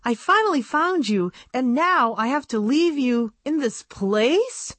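a small doll heartbroken at leaving her aunt; upset young doll, pitched high; distressed girl doll. A narrator's reading. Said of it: "almost let out a sob".

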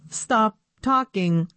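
flat computery commanding voice; robot voice. Acted. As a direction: bark it out like a machine. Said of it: "in a computery voice".

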